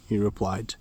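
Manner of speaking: plain reading voice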